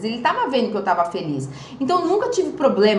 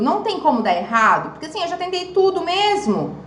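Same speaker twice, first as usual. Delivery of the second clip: higher, eager pleading patient voice; hopeful young patient; 6 semitones higher than usual. Retold or imitated. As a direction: play her younger self begging for hope. Retells her hopeful question. (paciente esperançosa e ansiosa)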